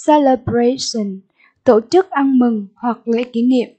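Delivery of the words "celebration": "celebration" stressed on BRA; stress on third syllable. Shown as a demonstration. Teacher repeating vocabulary for pupils, "celebration" stressed on BRA. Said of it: "nhấn âm tiết số ba".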